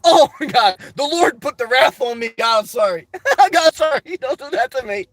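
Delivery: giggling mock panic at God's wrath; a real laugh breaking into a playful plea. Real, not acted.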